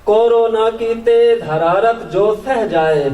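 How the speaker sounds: measured Urdu nazm recital, pauses between phrases; poetry recitation. Acted. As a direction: lift each opening, let the line fall away. Recites own poem to audience.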